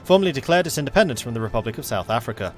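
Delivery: dramatic newsreader read-out; news read. Acted. Streamer reads a game news event to viewers, newsreader style. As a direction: announce it like breaking news.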